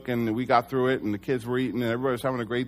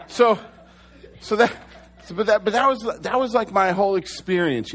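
laughing through the words, high and loud; sheepish laugh after a joke about Baptists; 7 semitones higher, 4 dB louder than usual. Real, not acted. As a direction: chuckle your way back into the story. Laughing at his own joke.

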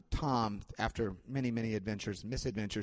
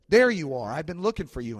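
gruff father; 4 semitones higher, 7 dB louder than usual. Retold or imitated. Abusive father finds the boy.

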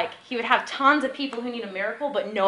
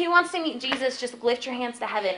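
higher, lively imitation of a preacher; retold altar call; 4 semitones higher than usual. Preacher calling a street crowd to Jesus, higher retold altar call. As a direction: invite the crowd in, lightly acted.

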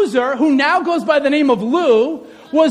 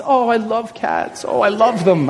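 fake cat lover; 4 semitones lower than usual. Speaker pretending to love cats for the congregation, fake affection. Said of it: "You want me to say I love cats?".

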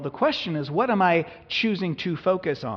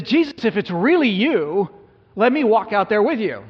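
calling out across the water, unsure; Peter calling out; 5 semitones higher, 6 dB louder than usual. Acted. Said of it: "And Peter says".

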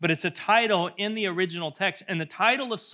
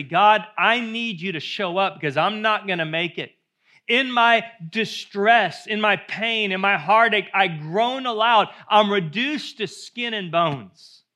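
loud, high, slow pleading preacher cry; impassioned pulpit voice, stretching each phrase; fervent preaching; 5 semitones higher, 7 dB louder, slower than usual. Acted. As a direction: pour out the psalm's desperation at full force. Preaches the psalm aloud.

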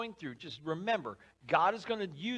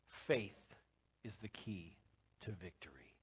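fading softer into near silence; hushed conviction; 10 semitones lower, 13 dB quieter than usual. Acted. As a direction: let it sink in quietly. Preacher's hushed closing line.

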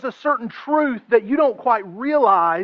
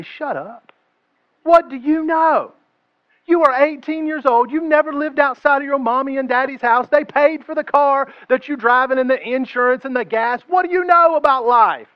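angry retort; 4 semitones higher than usual. Pretend. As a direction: tell off the know-it-all kid. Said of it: "I would look at him and say".

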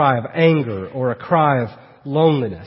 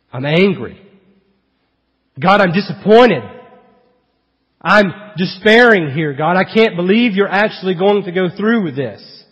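mild acted anger, rising into disappointed protest; angry, despairing; 4 semitones higher, 5 dB louder than usual. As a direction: voice a hurt complaint to God. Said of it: "what he's saying is".

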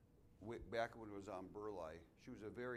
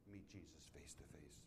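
whispered, reverent ending; whispered awe; 7 semitones lower, 11 dB quieter than usual. Real, not acted. Pastor recalling a dying woman's faith, whispering. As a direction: drop to a hushed whisper of awe. Pastor remembering an old parishioner.

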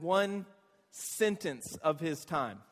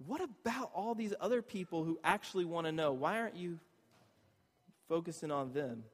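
much softer, pleading question; gentle God voice; 2 semitones lower, 7 dB quieter than usual. Retold or imitated. God gently asking the church about seekers, much softer. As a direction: softly nudge them toward those who want to know. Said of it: "God's going".

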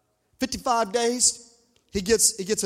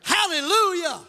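praise shout; 9 semitones higher, slower than usual. Real, not acted. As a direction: cry out praise to the congregation. Exclaims praise to the congregation.

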